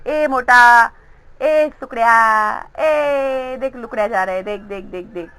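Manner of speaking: loud teasing taunts, changed voice; taunting name-calling in a put-on voice; mocking kids. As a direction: jeer like a cheeky schoolkid. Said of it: "मजाक करते ना तुम लोग इस तरह से".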